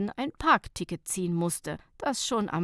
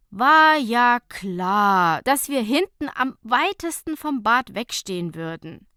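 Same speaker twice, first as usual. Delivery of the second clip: grumbling; 3 semitones higher, 8 dB louder than usual. Acted. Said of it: "monierte Fabienne".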